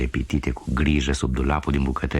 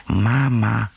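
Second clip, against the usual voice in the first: clear, sharp doll's cry; 5 semitones higher than usual. Acted. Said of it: "un cuvânt clar și ascuțit".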